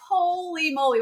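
holy moly. Retold or imitated. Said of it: "it just was like".

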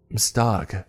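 groaned. A narrator's reading. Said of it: "I groaned".

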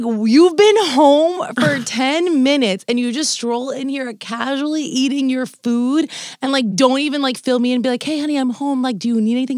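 wife laughing through a rant at her husband; laughing mock rant. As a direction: scold him while cracking up.

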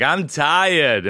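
put-on high little toddler whine. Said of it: "all toddlers have a Boston accent".

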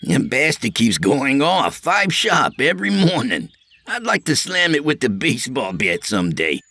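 high, eager sidekick trying to smooth things over; Artie's eager voice. Acted. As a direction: pitch it up high as the nervous peacemaker.

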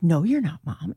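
low mock refusal, dropping away on "Mom"; imitated son's refusal. Son tells mom she's not coming to the dance, imitated low refusal.

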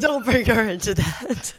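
slow, loud, laughing repeat. Real, not acted. Laughing echo.

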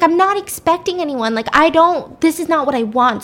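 mildly panicked, pitch starting high; a touch of flustered panic; freaking out. Acted. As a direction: fret at an unexpected visitor. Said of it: "So she starts freaking out".

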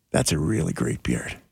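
low, slow imitation of a stranger; imitating an awkwardly intimate compliment; awkward close-up stranger. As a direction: lean in and deliver it low, slowly. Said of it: "he leans in, he goes".

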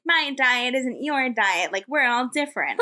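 slow, breezy influencer sound; Instagram voice. Retold or imitated. Influencer chatting to her followers, in a slow breezy Instagram voice. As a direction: mimic an Instagram girl lecturing her followers, slowly.

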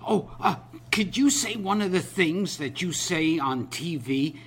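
put-on a touch of an eager young fan; mildly mimicked excitement. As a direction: lightly act an excited kid asking a favour. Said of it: "he's very excited".

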